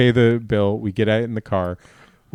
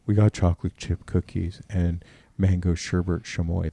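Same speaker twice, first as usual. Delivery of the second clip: lightly voiced kid sister, a touch lower; doing her put-on voice, only a little lower; mock voice for Miranda; 4 semitones lower than usual. Mocking Miranda's put-on voice to the friends, barely changed. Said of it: "That's my voice for her".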